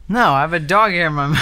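insist, laughing it off; insistent. Real, not acted. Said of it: "He's still sick".

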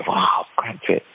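excited shout breaking into high laughter. Real, not acted. Man proud of Vogue tag, excited shout and laughter. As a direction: whoop it out then laugh.

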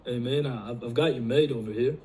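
mock American bouncer accent; bad American accent. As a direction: lightly attempt a clumsy American accent. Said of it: "That's an insulting American accent".

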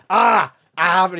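imitated Scottish train drinker; thick Scottish accent. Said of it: "had the same accent as the fella".

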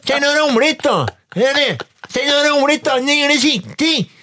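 mock rowdy heckler yell; heckler shouting. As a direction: bellow it like a drunk in the crowd. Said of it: "folk börjar skrika och sen kommer någon sån här rå".

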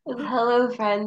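breathy flu-sultry greeting. Pretend. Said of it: "in your special sultry voice".

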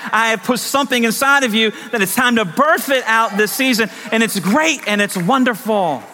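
fervent sermon exhortation; impassioned preaching. Real, not acted. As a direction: preach it with urgent conviction. Preaching with raised intensity.

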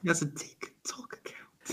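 whispered ticking clock voice; slow whisper, ticking each syllable; clock impression. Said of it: "It's also your Boris Johnson impression".

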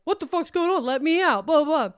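loud, high, panicked shouting; panicked yell. Retold or imitated. Trapped man yelling to be let out.

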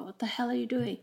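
a whispered, unvoiced challenge; hushed whisper. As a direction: hiss it at him under your breath. Confronting delivery man, hushed.

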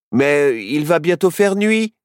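a touch of worry; mildly anxious warning; worried. Acted. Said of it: "s'inquiéta Nao". (Nao un peu inquiet)

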